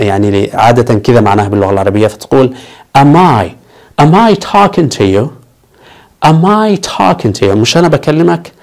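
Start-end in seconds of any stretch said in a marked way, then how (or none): 3.0-7.5 mock angry. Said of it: "لما تتعصب تقول له".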